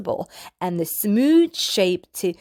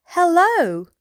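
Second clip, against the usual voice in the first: captain; 6 semitones higher, 3 dB louder than usual. Acted. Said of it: "the captain on the flight deck says".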